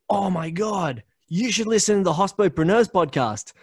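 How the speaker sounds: high, excited gushing voice, pitched well up; gushing fan. Retold or imitated. Sarah urging him to listen to the podcast, high and gushing. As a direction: gush about a favourite podcast.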